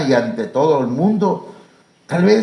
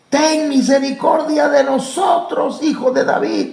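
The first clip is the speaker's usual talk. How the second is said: pleading cry; 9 semitones higher than usual. Retold or imitated. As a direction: lift the plea up like blind men crying out.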